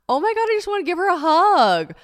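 high, loud, gushing aww; aw, tender. Real, not acted. Reading her teen journal, gushing tenderly. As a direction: coo over her younger self with love. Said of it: "I'm like".

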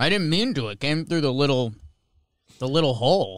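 chewing ice while talking; ice in mouth. Real, not acted. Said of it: "while you're chewing on ice".

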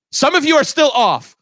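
high mock villainess, dramatic; villain speech. Retelling a movie villain's speech to the mice in a high mock voice. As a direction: ham up the evil villainess's grand speech. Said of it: "she goes".

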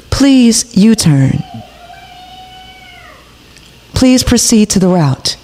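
Siri voice. Pretend. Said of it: "I would have Siri tell your ass".

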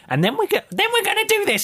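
high squeaky parody of a teacher; mock teacher. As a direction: lampoon the teacher's patter. Mocking the teacher's voice.

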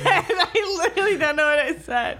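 laughing. Real, not acted. Laughing at own failed quote.

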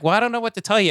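retold helpless protest, pitched high; defensive husband. Husband answering unconvinced wife, mock helpless defence.

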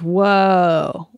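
long drawn-out "whoa", mock amazement; acted whoa. Quoting the heroine to poke fun, a long acted whoa. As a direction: play the heroine's wonder, stretched out. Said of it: "She goes".

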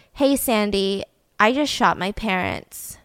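understated, matter-of-fact confession; retold calm. Boy at the neighbor's door, calm confession. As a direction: say it evenly, as an imitated calm admission. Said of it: "calmly knocks on it".

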